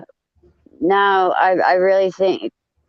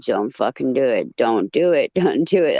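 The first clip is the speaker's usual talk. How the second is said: imitated silent warning; 6 semitones lower than usual. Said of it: "looking at me like".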